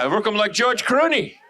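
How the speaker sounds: put-on echoed neighbor's Asian accent; mock Asian accent. Comic echoing the neighbor's compliment, mock Asian accent. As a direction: repeat it in her Asian accent.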